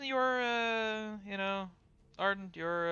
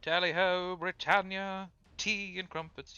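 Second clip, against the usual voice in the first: mock English accent; 4 semitones higher, slower than usual. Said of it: "in the original English accent".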